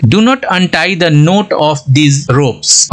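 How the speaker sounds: very slow, deliberate English sentence; slow example read. Shown as a demonstration. Teacher reading an example sentence slowly to students. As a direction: lay out each word for learners. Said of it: "sentence में use करके और समझने".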